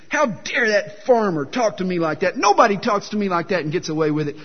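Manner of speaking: acting out indignant outrage; hammed-up indignation, little extra volume; mock angry. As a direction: play at being outraged by an insult. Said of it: "he's angry. He's spitting".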